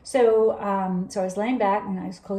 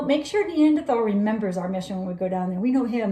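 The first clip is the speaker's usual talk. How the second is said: cocky, teasing reminder to a buddy; faster than usual. Retold or imitated. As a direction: joke around, full of swagger. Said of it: "being really cocky about that".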